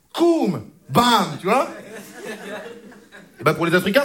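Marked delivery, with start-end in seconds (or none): 0.1-1.7 comic-book sound effects. Shown as a demonstration. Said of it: "Souvent, c'est marqué Pam".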